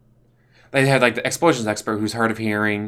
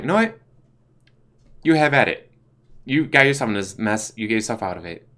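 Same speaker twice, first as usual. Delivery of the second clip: Rick Mercer's character. Retold or imitated. Mercer's character washing his hands of the actor. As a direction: toss it back at him, done with it. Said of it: "Rick Mercer's like".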